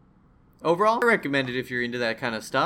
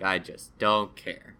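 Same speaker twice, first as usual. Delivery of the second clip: bored; 4 semitones lower, much slower than usual. Retold or imitated. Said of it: "and I'm like".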